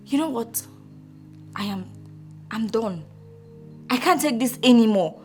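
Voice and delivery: low, hushed giving up; weary defeat. Acted. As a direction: give up softly, with pauses between phrases. Wife gives up on the quarrel.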